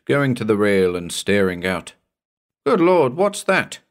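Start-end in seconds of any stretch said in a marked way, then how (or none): 2.6-3.8 high, louder cry of sudden alarm; startled exclamation. Acted. Mate startled at the rail, startled exclamation. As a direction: blurt it out in sudden shock.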